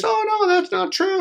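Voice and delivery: very high falsetto protest; mock-innocent imitation; fake denial. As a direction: mimic false friends squeaking out a denial. Mimics false friends denying it.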